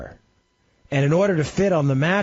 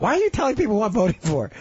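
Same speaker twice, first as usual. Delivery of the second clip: mock wife complaint; 6 semitones higher, faster than usual. Wife imagined complaining about him.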